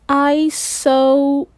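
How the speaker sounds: Isotopes drawn out slowly as "eye-so-toe-pees"; slow, broken-up Isotopes, misread with an extra syllable; halting sounding-out. Acted. Sounding out an unfamiliar word.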